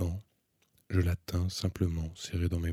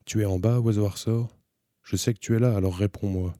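calling down; 3 semitones higher, 7 dB louder than usual. A narrator's reading. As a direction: call out to someone far below. Calling down into the well.

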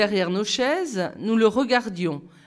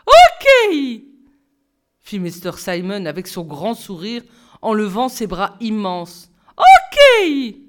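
beaming Ok; 8 dB louder than usual. A narrator's reading. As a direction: throw your arms up and shout it. Simon cheers, arms raised.

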